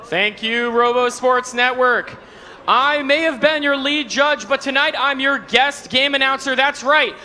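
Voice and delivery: arena announcer. Acted. Guest game announcer intro.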